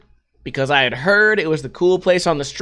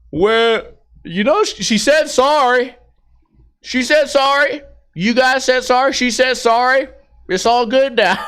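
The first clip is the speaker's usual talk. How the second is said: higher, mocking the guard's shrugging excuse; mock dismissive guard; 5 semitones higher than usual. Bouncer shrugs off the near crash, mocking whine. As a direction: whine it like a lazy brush-off. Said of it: "he's like".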